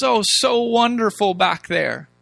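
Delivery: drawn-out mock nostalgia, settling at the end; slow, put-on wistfulness; mock wistful. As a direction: sigh over the good old days, mockingly. Mocking the people's rosy memory.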